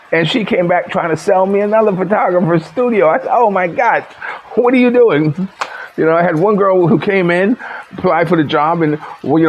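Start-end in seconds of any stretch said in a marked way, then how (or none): 3.3-5.5 higher-pitched retold dismay; mock exasperated outburst; exasperated disbelief, retold. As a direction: recount your appalled reaction. Retelling his reaction to girl.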